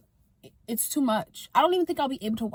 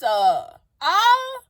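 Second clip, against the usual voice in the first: pained groan; 7 semitones higher, 7 dB louder than usual. Real, not acted. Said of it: "it hurts".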